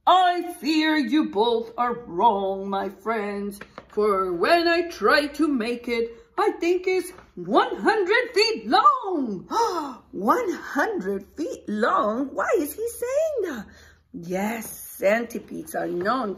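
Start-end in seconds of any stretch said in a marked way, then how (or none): 0.1-9.5 a dramatic centipede correcting friends; centipede speaking. Acted. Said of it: "The centipede looked down and said". 9.5-13.7 high, quick astonished question; mock amazement. Teacher feigns amazement to kids.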